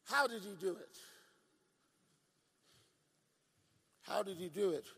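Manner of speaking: low, hushed sermon voice; hushed preaching. Acted. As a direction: lean in and say it quietly to the church. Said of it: "Why am I talking like this?".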